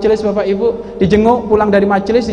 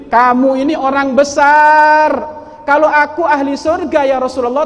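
pleading lament; 6 semitones higher than usual. Acted. Sauban laments being apart from Prophet.

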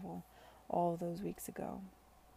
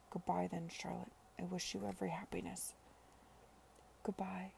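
soft, whispered goodbye; hushed farewell; 7 dB quieter than usual. Acted. Sidney and Charlotte parting for good, whispered. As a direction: let the goodbye barely leave your lips.

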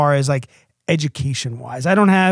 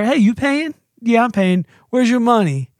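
put-on toddler at the store; 6 semitones higher than usual. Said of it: "when I go to the grocery store".

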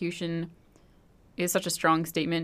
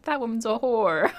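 higher, louder scornful condemnation; hammed-up outraged accusation; mock John Knox denouncing; 5 semitones higher, 6 dB louder than usual. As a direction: sneer it out like a ranting preacher. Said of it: "everything he said about her was like".

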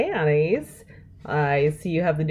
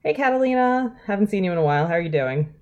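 cheerful greeting; 4 semitones higher, faster than usual. Acted. Greeting a friend.

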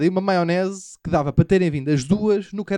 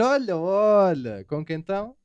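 suggestive tone; slower than usual. Retold or imitated. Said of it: "O tonzinho modifica-te uma frase toda".

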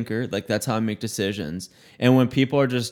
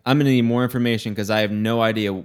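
sassy comeback, fast; faster than usual. Retold or imitated. Clerk telling an angry customer to explain, exasperated. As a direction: rattle off an exasperated demand for details. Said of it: "I'm like".

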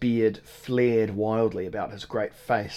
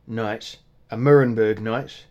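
scoffing at the word Nuremberg, louder on the second question; mocking disbelief; 7 dB louder than usual. Innkeeper mocks the stranger's request, scoffing. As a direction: innkeeper throws the guest's word back.

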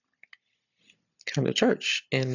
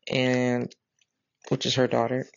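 ordinary talk

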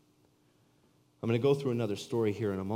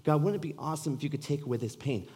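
pleading prayer; 6 semitones higher, 3 dB louder than usual. Acted. Pleading, higher and louder.

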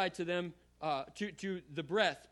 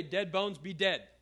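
louder, blunt pretend order; mock command to the bones; 4 dB louder, slower than usual. Pastor pretends Ezekiel scolds the bones, louder mock command. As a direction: bark a flat order at dead bones. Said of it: "He didn't say".

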